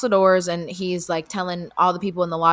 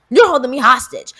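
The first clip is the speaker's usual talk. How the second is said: mock indignant; 4 semitones higher, 8 dB louder than usual. Repeated complaint.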